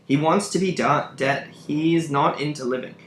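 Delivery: understated indignant complaint; annoyed. Acted. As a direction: protest with a touch of annoyance. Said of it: "I feel like he's really annoyed".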